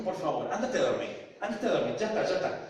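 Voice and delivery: retold annoyed brush-off, rising; mild mock exasperation of a mother; irritated. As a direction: send him away impatiently. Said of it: "Y entonces se enojó".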